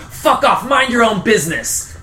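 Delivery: lightly acted angry brush-off; loud telepathic rebuff. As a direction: shove the words at them clumsily. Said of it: "loud and unlike the communication".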